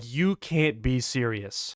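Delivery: low, slow and incredulous; grave disbelief. Acted. Jim objecting to using a madman, gravely disbelieving.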